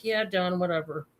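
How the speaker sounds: bored husband. Retold or imitated. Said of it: "and Bob's just like".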